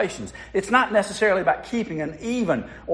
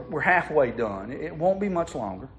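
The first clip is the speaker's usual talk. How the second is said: patient; 2 semitones lower, 4 dB quieter than usual. Acted. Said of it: "The mom patiently said".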